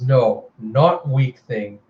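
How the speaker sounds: slow, gloating, savoring each word; grinning menace. Acted. Murderous sister gloats slowly over her kill. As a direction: grin through it, slow and triumphant. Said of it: "she just grins and goes".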